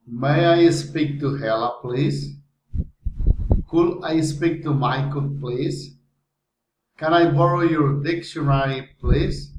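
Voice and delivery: requests ending with a lifted "please"; rising intonation. Shown as a demonstration. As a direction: raise the voice on "please" at the end of each request. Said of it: "rising intonation".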